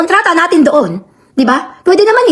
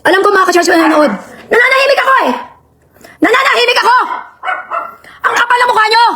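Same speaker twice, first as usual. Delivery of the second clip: real anger. Real, not acted. Streamer telling church viewers off about Beverly, angry. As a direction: vent real fury at them. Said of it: "Talagang galit ako".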